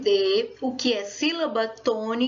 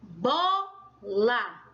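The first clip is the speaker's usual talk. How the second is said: "bola" split slowly, BO stronger than LA; stress on BO. Shown as a demonstration. Teacher giving another example to pupils, "bola" stressed on BO. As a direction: stretch "bola" apart, weight on the BO. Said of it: "você põe mais força para pronunciar".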